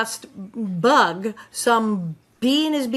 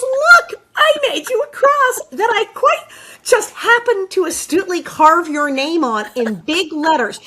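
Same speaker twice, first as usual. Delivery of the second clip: mock helpful; 6 semitones higher, 5 dB louder than usual. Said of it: "he goes".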